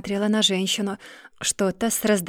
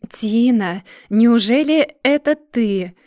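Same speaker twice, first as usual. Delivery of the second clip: sugary, slow and louder, lilting up; sweet sing-song voice; 3 semitones higher, 6 dB louder, slower than usual. Acted. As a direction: coo it sweetly, drawn out. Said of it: "Милым голоском пропела".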